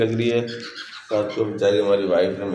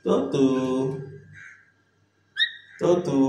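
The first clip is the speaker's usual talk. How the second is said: pitched way up, chirpy two-note call; high coaxing call; 4 semitones higher than usual. Real, not acted. Owner calling high to his parrot to copy the words. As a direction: sing it up high for the bird to copy.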